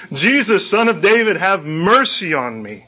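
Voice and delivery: high cry for mercy, starting on a laugh. Retold or imitated. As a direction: play a beggar calling out all the harder. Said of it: "he just shouts louder".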